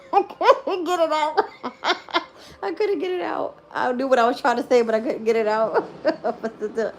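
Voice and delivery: high, loud giggling words, breaking into laughs; can't stop laughing at her own stumble; helpless laughter. Real, not acted. To viewers after fumbling a word, laughing helplessly.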